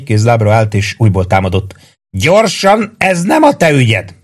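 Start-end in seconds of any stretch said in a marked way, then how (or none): 2.2-4.1 high-pitched, urgent cry; shouted urging. A narrator's reading. Maggio urges Prue to go, crying out high. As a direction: urge him off in a high shout. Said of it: "ordított Maggio".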